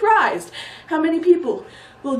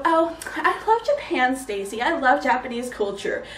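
gushing fan. Acted. Comedian mimics people who love Japan, lightly gushing. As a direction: gush a little, stretching the opening. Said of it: "people always go".

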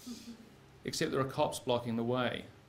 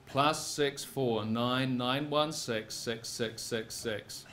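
slow number read; 3 dB quieter, much slower than usual. Acted. Reading out the boss's number.

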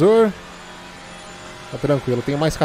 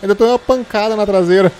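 hit hard crying out; 7 semitones higher, 6 dB louder than usual. Real, not acted. Car hit from behind.

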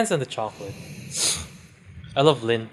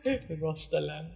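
imitating fake Chinese accent; 3 semitones higher, 11 dB quieter, slower than usual. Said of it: "fake Chinese".

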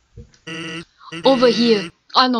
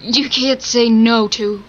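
hiccup; slower than usual. Real, not acted. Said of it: "I hiccuped there, sorry".

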